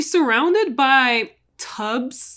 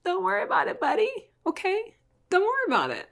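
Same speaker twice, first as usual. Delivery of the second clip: much higher, coaxing reassurance; higher, sing-song don't-worry voice; Ray reassuring; 11 semitones higher, much faster than usual. Retold or imitated. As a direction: soothe him like a shady friend. Ray soothing Dante on phone.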